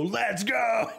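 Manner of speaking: high excited yell at the screen; excited shout. Retold or imitated. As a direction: fan yelling at a good-bad movie. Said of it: "when I go".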